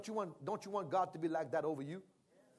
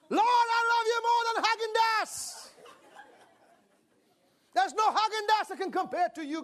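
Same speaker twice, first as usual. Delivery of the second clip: put-on prayer voice; 13 dB louder than usual.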